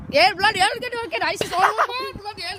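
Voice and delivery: loud, high put-on accent yelling; loud mock-accent outburst. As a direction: bellow it in the silly accent.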